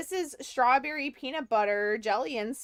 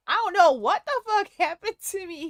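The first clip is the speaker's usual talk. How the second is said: fast, higher, louder mock rant; mock excited rant; 6 semitones higher, 6 dB louder, faster than usual. Streamer imitating a giddy Instagram wine guy, fast and loud. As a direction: rattle it off like a giddy tipsy guy. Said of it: "And he's like".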